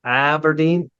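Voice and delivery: Aberdeen with the a of apple, asked; testing the sound of Aberdeen; tentative Aberdeen with rising tune; trying Aberdeen. Shown as a demonstration. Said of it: "Say it like an apple".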